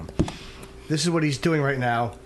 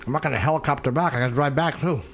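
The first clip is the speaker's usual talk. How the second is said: mouth full. Real, not acted. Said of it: "Can you not fucking talk with your mouth full".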